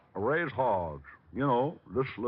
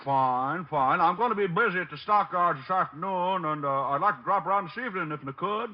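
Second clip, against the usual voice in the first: hillbilly put-on; 4 semitones higher than usual. Detective in disguise calling the psychic, country accent. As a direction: play the hog farmer yokel.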